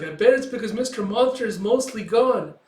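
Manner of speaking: high, loud little-creature voice; high Kippa voice. Acted. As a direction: pipe it up high like a small creature. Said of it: "Kippa's like".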